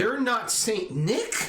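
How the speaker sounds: slow, high teasing question; drawn-out joking disbelief; mock surprise. Teasing muffled friend as Santa.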